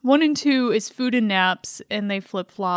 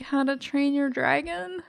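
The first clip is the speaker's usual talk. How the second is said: nerd voice; 3 semitones higher, 3 dB quieter than usual. Real, not acted. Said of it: "Is that your nerd voice there?".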